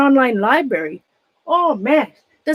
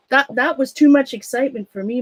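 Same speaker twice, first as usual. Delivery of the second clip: out of breath. Real, not acted. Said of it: "I'm out of breath".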